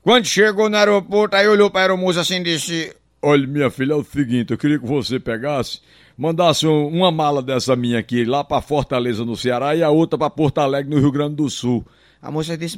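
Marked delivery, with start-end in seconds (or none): 3.2-11.8 put-on lightly lowered old passenger voice. Passenger asks the flight attendant.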